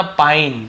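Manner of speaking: "पाइन" said as "pain" with a long eye vowel; teacher modelling "पाइन"; pronunciation demo. Shown as a demonstration. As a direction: model the word "पाइन" clearly, silent final e. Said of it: "क्या होता है".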